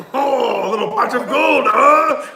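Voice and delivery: high loud stage-Irish voice; mock Irish accent. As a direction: play the rowdy Irishman. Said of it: "making fun of Irish people".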